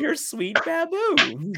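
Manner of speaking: high, slow, drawn-out lovesick mimicry; stretched-out syrupy imitation; Cole. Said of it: "that's what he sounded like".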